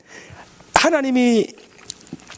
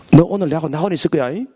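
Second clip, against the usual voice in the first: casual calm; 5 semitones lower, faster than usual. Acted. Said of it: "너무 태연하잖아요".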